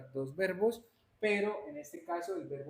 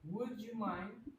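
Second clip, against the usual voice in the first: slow, soft model question; 5 semitones higher, 5 dB quieter, much slower than usual. Shown as a demonstration. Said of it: "¿cómo interpretamos este?".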